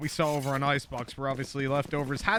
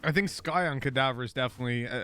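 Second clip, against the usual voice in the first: hiccups; 3 semitones lower than usual. Real, not acted. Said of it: "I got the hiccups".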